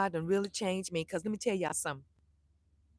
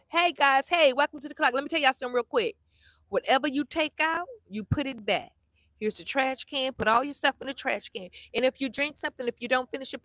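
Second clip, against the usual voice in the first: firm hostess; 3 semitones higher than usual. Pretend. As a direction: announce the house rules with a smile but no give. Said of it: "this Veronica's coming out".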